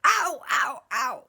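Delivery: mock ow.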